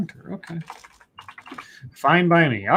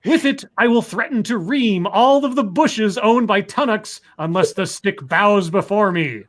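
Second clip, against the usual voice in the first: lightly voiced evil genius, half laughing; a hint of a gloating supervillain reading his plan; unhinged villain. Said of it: "I have to do my evil voice".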